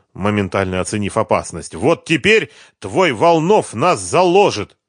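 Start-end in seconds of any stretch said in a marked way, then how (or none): 1.7-4.8 high, loud, furious outburst; angry shout. A narrator's reading. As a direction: yell it at her in rage. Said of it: "зло выкрикнул он". (злой выкрик Харькова на Машу)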